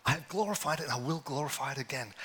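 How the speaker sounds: set-apart, distinct heavenly voice. Acted. Preacher voicing the voice from heaven, distinct and apart. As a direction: announce it as the voice from heaven. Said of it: "a voice boomed from heaven".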